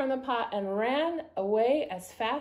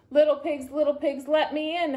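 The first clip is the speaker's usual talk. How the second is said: howling; 6 semitones higher, 3 dB louder than usual. A narrator's reading. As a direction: howl lightly at the door. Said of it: "howled the wolf".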